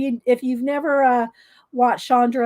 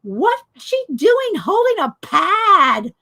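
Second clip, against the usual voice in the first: mock onlookers' disbelief; 5 semitones higher, 4 dB louder, slower than usual. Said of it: "everybody's looking at me like".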